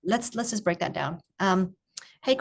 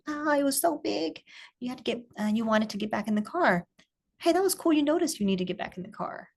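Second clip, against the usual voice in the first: higher curious voice, praising what he noticed; 4 semitones higher than usual. Shown as a demonstration. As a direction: wonder aloud at his choices, pitched up. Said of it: "with that curious tone".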